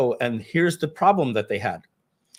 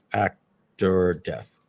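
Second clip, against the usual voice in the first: normal talking voice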